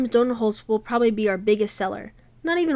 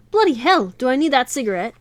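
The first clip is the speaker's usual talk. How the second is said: exclaiming; 3 semitones higher, 6 dB louder than usual. Acted. Lavina reacts, British exclamation.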